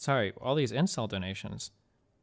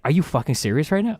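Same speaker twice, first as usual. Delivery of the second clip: loud, higher-pitched outraged question; re-enacted furious incredulity; incredulous anger; 5 semitones higher, 8 dB louder than usual. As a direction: fire it back in exasperated disbelief. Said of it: "It's like".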